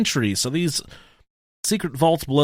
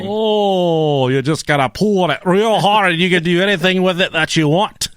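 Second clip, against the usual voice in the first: mock advice voice; 5 semitones higher, 4 dB louder than usual. Joking docking advice voice.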